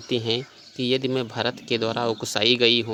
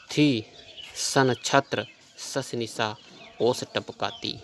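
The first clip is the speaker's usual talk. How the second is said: slow poem recitation; slower than usual. Acted.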